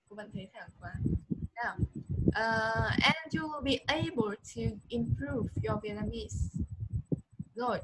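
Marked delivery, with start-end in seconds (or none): 3.0-6.5 teacher's model read with "be" lifted; stressed model reading. Shown as a demonstration. Teacher models sentence stress for her student. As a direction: lean on "be" and let the line rise and fall. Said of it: "Cô nhấn trọng âm cho con này".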